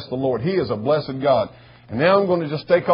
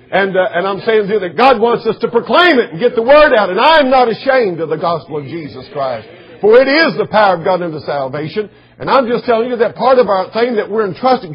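raised, emphatic pulpit voice; forceful preaching; 6 semitones higher, 6 dB louder than usual. Real, not acted. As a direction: declare it firmly to the congregation.

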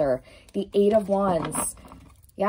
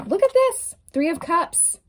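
much higher and louder with delight; very high, louder thrilled call; excited; 9 semitones higher, 4 dB louder than usual. Real, not acted. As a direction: burst out at the card. Excited by the next card.

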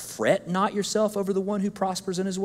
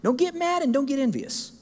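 gentle hushing; 11 semitones higher than usual. Retold or imitated. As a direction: hush them kindly like a parent. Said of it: "And look, he said".

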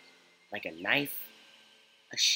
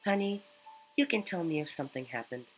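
lightly voiced caring mother, higher; gentle motherly tone, pitched up; mom voice; 6 semitones higher than usual. Streamer voices Mom character.

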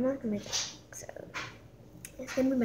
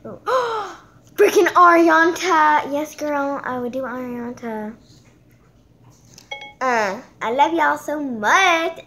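loud, higher, gushing; loud thrilled gushing; excited squeal; 3 semitones higher, 11 dB louder than usual. Real, not acted. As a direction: gush like a starstruck fan. Excited over app voice.

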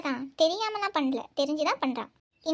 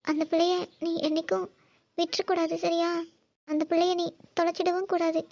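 tearful mother begging for a promise; crying plea. Acted. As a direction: plead in halting, weepy phrases. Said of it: "நீங்க இப்படி அழுகிறது தான்".

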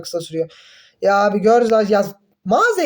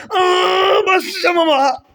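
high, louder exasperated yell; frustrated shout; 10 semitones higher, 3 dB louder, much slower than usual. Real, not acted. Gamer shouting in frustration after dying again.

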